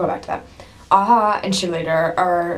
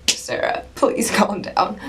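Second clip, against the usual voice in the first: laughing at herself; 2 semitones higher, slower than usual. Retold or imitated. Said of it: "I'm like".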